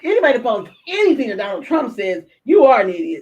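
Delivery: loud, laughing insult; laughing rant. Real, not acted. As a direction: call them idiots with a laugh. Ranting, laughing.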